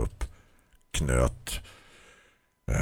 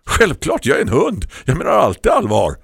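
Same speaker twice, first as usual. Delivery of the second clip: higher and louder, decided and firm; firmly; 13 semitones higher, 10 dB louder than usual. A narrator's reading. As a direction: state it with total conviction. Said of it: "sa hon bestämt". (bestämt, högre och starkare)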